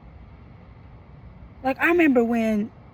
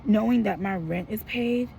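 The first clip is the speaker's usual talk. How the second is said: softer, weary and anxious, trailing to near nothing; worried, fading; 5 dB quieter than usual. Real, not acted. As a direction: let the worry make you quieter. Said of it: "And I'm so worried".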